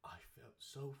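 hushed mock confession. Mocking a filmed depressed confession.

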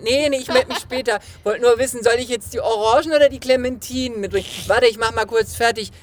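high, giddy phone call to dad; daughter on phone. Retold or imitated. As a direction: chatter to dad, distracted and giddy. Imitated phone call to father.

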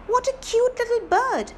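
delighted. Acted. Twinkle admiring the canary.

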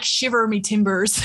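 slow hammed-up pirate shout. Podcast host tries a pirate catchphrase, slow shouted growl. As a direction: bellow it like a cartoon pirate. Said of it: "maybe we could say".

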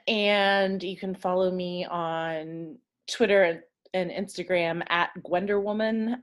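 hiccuping between words; with hiccups. Real, not acted. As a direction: talk through the hiccups. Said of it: "excuse me, on the hiccups".

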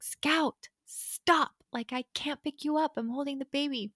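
retold parental outburst, pitched high. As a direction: raise your voice like an overwhelmed parent, short of a full shout. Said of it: "I just raised my voice".

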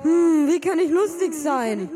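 high, loud goofy voice with laughs; brother's brain voice. Retold or imitated. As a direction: play a giddy dim brain. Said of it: "Der hört sich nämlich circa so an".

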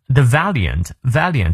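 "valiant" stressed on its first syllable. Shown as a demonstration. Teacher points learners to the accent, front-stressed "valiant". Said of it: "valiant重音在前".

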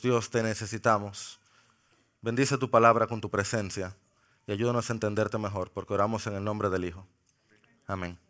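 soft, low prayer to God; hushed closing prayer; quiet prayer. Real, not acted. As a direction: pray it gently and humbly. Prayer after reading.

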